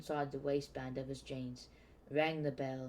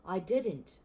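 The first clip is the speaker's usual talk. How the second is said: sharp, louder denial; 4 semitones higher, 5 dB louder than usual. Acted. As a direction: snap the denial. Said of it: "Harry said sharply".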